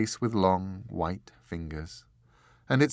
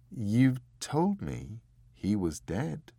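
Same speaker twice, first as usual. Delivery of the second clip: gentle angel; slower than usual. Acted. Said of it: "Then, gently".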